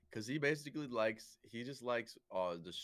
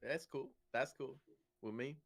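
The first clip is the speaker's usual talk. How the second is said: higher-pitched, easygoing put-on voice; mock laid-back Frenchman; 5 semitones higher than usual. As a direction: play a carefree Frenchman shrugging it off. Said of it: "It's just like".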